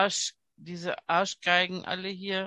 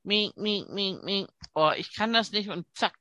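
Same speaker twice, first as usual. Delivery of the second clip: bad acting; 3 semitones higher, 4 dB louder than usual. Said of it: "machst wie eine schlechte Schauspielerin".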